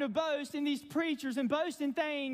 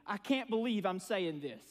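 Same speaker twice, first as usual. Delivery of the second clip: rueful aside; 5 semitones lower than usual. Retold or imitated.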